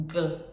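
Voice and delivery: G said from the back of the tongue; clear G demo. Shown as a demonstration. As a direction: model a clean G, tongue tip down. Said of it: "like that".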